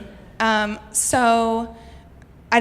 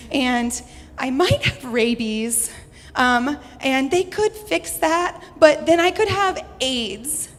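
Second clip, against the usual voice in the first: frantic confession; 5 semitones higher than usual. Retold or imitated. Panicked phone call to mom.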